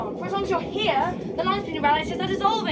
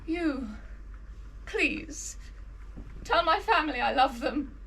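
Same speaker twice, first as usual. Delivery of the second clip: wounded soldier gasping. Acted. Dying farewell speech continues.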